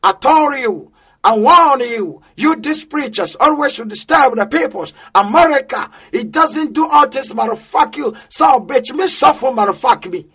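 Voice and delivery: gruff imitation of a rude American passenger; mild mock American rant; mock American English. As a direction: spit out broken American English. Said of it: "edwa American brɔfo gu me so".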